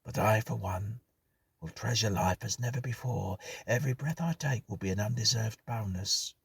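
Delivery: hushed tone. Acted. Hughes to the others after the ghost, hushed. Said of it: "Hughes spoke in a hushed tone".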